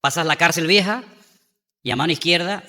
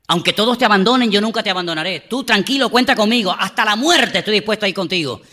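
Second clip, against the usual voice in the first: loud, higher boastful vow; swaggering bravado; 5 semitones higher, 4 dB louder than usual. Retold or imitated. Peter vows loyalty to Jesus, swaggering. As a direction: puff up like a tough guy. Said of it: "allí en plan valentón".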